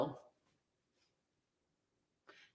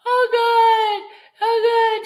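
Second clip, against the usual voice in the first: laughing; 4 semitones higher, 5 dB louder, slower than usual. Real, not acted. Cracking up at the chat.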